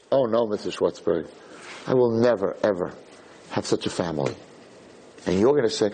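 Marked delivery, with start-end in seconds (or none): 0.1-4.3 low, resigned acting; understated downhearted teenager; dejected girl. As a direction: sink lower as if hope is gone. Girl doubts she'll have family.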